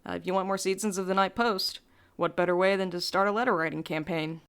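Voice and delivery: ordinary talk, nothing marked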